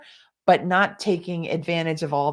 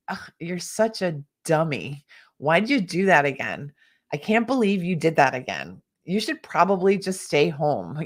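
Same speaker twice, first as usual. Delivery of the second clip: a light touch of a scornful inner critic. Shown as a demonstration. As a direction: mildly belittle yourself like a nagging critic. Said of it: "with that tone and with that attitude".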